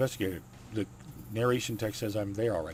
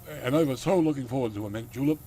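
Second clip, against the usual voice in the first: put-on hammier Dracula accent, a little raised; louder country Dracula accent, playing up the lament; 3 semitones higher, 4 dB louder than usual. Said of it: "the accent I gave him".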